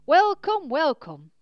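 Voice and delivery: loud, high-pitched innkeeper greeting; enthusiastic welcome. A narrator's reading. Innkeeper walks up to greet the arriving coach, enthusiastically. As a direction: hail arriving guests with full-voiced enthusiasm. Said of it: "Enthusiastically, the innkeeper walked towards them".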